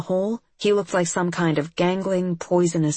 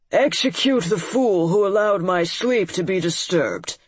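cruel monster lord. Acted. Lord orders an execution.

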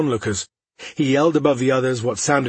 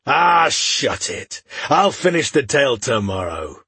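gruff dwarf; 2 semitones higher, slower than usual. Acted.

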